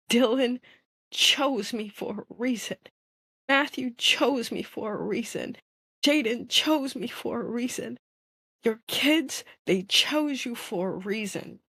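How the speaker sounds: earnest affirmation. Real, not acted. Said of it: "repeating the inner message".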